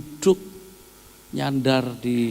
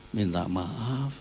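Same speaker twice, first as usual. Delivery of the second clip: soft apology; 3 semitones lower, 5 dB quieter, much slower than usual. Retold or imitated. Wife apologizing softly at hotel.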